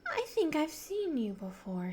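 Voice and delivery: half asleep, pleased to see him; a lightly voiced dreamy girl; dreamy, content. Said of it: "spoke in a dreamy, content sort of voice".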